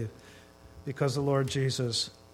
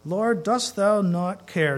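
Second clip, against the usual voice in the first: upset Martha, King James; 4 dB louder, slower than usual. Retold or imitated. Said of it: "Martha gets upset and she says".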